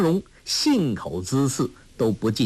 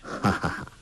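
soft laugh; 4 semitones lower, 7 dB quieter than usual. A narrator's reading. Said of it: "一灯微笑着说".

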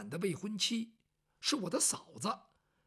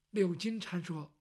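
ordinary delivery

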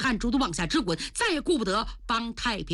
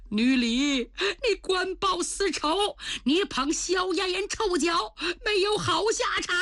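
cursing; 9 semitones higher than usual. A narrator's reading. The old prince curses Nü Li, high and angry. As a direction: spit curses at her. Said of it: "老贼躲不开就骂呀".

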